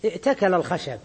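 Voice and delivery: ائتكل as i'takala, glottal stop before t; hamza kept. Shown as a demonstration. Teacher gives an example about wood, ائتكل with audible hamza. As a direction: catch the hamza in ائتكل, then run on to الخشب. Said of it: "يعني يصح أن تقول".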